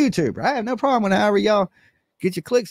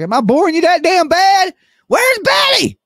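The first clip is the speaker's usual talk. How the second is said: higher, louder put-on squawk; hammed-up yell, half joking; mock outraged yell; 12 semitones higher, 5 dB louder than usual. Mab yelling for Betty at the counter, hammed-up shout. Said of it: "my best Betty impersonation".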